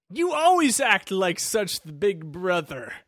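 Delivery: drawn-out, lightly hammed-up character line; mock game heroine. Player retells the woman's line to co-host, lightly hammed-up.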